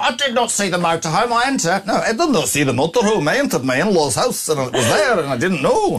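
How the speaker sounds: high, put-on Scottish accent.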